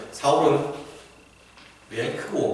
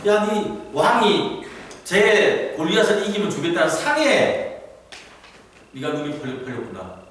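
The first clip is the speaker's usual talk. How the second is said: lightly acted sneering older brother; mocking put-down with swinging pitch; dismissive; 4 semitones higher than usual. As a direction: brush off a kid brother's outrage. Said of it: "다윗의 의분을 무시했습니다".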